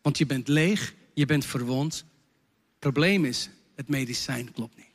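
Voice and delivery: gentle encouraging words to a confessor; reassuring pastor. Retold or imitated. Pastor comforting a man who confessed, gently reassuring. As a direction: soften down and reassure. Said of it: "Ik zeg".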